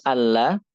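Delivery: "alla" as one connected word; joined. Shown as a demonstration. Teacher showing the joined spelling, "alla" said as one word. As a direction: run "alla" together with no gap.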